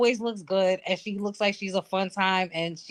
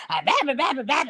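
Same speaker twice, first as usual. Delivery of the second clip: mock country bumpkin accent; 4 semitones higher, much faster than usual. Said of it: "with that country bumpkin ass accent".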